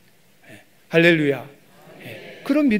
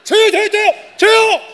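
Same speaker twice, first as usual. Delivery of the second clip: shouting out, much higher and louder; eager shouting; 14 semitones higher, 7 dB louder than usual. Retold or imitated. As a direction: grab the last one, yelling me me me. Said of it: "막 이랬어요".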